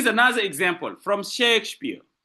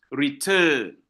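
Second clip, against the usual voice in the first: "return" with a long, weighted second syllable; stress on second syllable; 3 semitones lower than usual. Shown as a demonstration. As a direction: lean on the "turn" in "return". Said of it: "la deuxième syllabe est accentuée".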